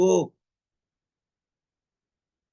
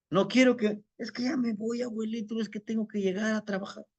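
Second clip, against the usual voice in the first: fast, higher, fading excuses to grandpa; hurried excuses; 7 semitones higher, 4 dB quieter, faster than usual. Acted. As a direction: rush the excuse out, trailing off. Joven apurado quiere irse. (joven con prisa que quiere irse)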